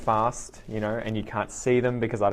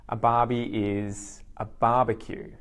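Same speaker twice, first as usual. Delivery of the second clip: slow explanation. Shown as a demonstration. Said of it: "we take the first syllable".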